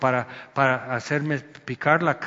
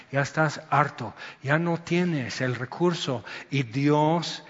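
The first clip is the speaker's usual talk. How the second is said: gentle reassurance; 4 semitones lower, 4 dB quieter than usual. Real, not acted. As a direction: lay it down gently for the weary. Pastoral turn to comfort.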